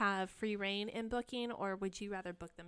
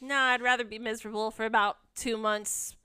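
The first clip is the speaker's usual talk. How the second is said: breezy dismissive; 9 dB louder than usual. Retold or imitated. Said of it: "I'm like".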